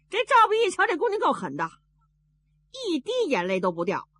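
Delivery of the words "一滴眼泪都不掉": plain reading voice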